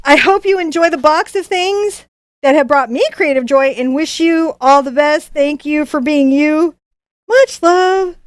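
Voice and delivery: put-on measured, half-convincing Australian accent; bad Australian accent. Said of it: "my not good Australian accent".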